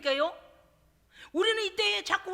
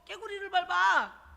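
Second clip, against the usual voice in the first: slow drawl; 3 semitones higher, slower than usual. Shown as a demonstration. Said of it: "너무 신중하고 뒷걸음을".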